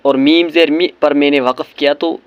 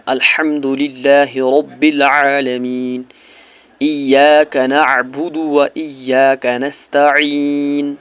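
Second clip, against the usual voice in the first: slow, drawn-out melodic recitation; measured tajweed recitation; slow Quran recitation; much slower than usual. Shown as a demonstration. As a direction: chant each word slowly and reverently. Recites verses slowly.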